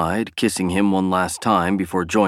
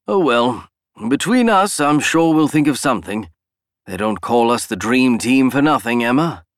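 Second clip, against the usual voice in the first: put-on old man character voice; 5 semitones higher, 3 dB louder than usual.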